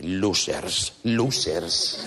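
low sing-song "Losers, losers" taunt. Retold or imitated. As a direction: jeer at the rivals. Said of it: "les dice". (burlón, canturreando "Losers")

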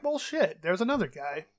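surprised. Retold or imitated. Realizing actors are British too.

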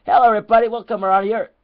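high, loud cartoonish teacher voice, swearing at the class; squeaky put-on teacher ranting; mock English teacher. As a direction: play a deranged teacher shrieking at his pupils. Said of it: "English school lesson".

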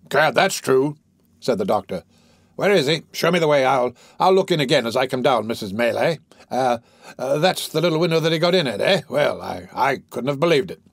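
bustle off talking all the way; bustling doctor. Acted.

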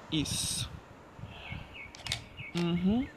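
soft breathy whisper of isso, barely voiced; whispered approval. Real, not acted. Photographer softly whispering approval to his model. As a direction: whisper Isso as she holds the pose.

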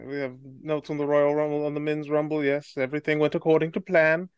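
pompous aristocrat, lightly voiced; a self-important noble introducing himself; posh noble character. Plays a stuffy noble character.

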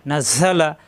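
নাজালা with a quick pressed জ, no delay; crisp z. Shown as a demonstration. Teacher drilling students on a pressed জ in নাজালা. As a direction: press the জ of নাজালা and let air out. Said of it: "জায় চাপ দিতে হবে".

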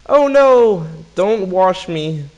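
very high, loud, drawn-out "oh no"; mock alarm. A narrator's reading. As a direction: squeal a hammed-up plea. Second marmoset pleads with gorilla.

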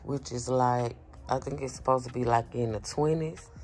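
talking with a sore bitten tongue; words a bit thick from a bitten tongue. Real, not acted. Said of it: "so I may sound a little funny".

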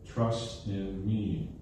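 slow, soft and gentle, drawing each word out; tender plea. Retold or imitated. Jesus gently urging Thomas to trust, slow and soft. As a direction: reassure like a shepherd calming his flock. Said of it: "Jesus is saying".

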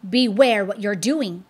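loud warning call; Christian crying out to Apollyon. Acted. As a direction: shout the warning at the fiend. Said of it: "cried Christian".

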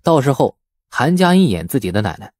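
ordinary delivery, nothing marked

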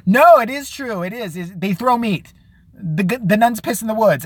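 imitating a friend's random fact with insistence; mock Teresa. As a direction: ham up a know-it-all friend swearing it's true.

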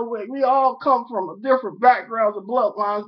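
lightly hammed-up Southern accent. Addressing the President in a Southern accent. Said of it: "Here go the Southern accent".

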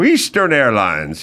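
lightly voiced old commercial announcer; a hint of a smooth ad read; airline ad voice. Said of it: "And they'd go".

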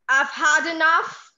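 fed-up mother. Acted. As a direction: put your foot down. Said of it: "voice modulation from mummy to child".

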